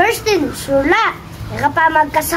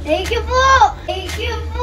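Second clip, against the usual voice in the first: crying; 3 semitones higher than usual. Real, not acted. Gift surprise, tearful thanks.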